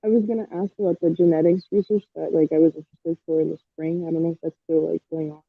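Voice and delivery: muffled, as if through a hand; words dulled behind a covered mouth. Real, not acted. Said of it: "You're kinda sounding muffled".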